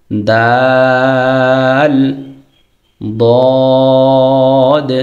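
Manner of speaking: long drawn-out দাল then sung দদ; Arabic letter sounds. Shown as a demonstration. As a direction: hold each letter to show thin and thick দ. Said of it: "দাল এবং দদ".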